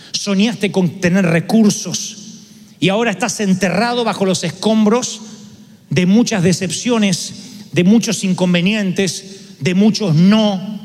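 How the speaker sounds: slow, heavy sermon cadence; slow preaching. Acted. Pastor to the congregation, slow and heavy. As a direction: let each phrase land slowly.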